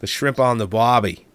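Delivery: a light Australian accent on shrimp on the Barbie. Shown as a demonstration. Performing the Aussie catchphrase on request, a mild Australian accent. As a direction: say it like a laid-back Aussie. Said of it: "Say it for me".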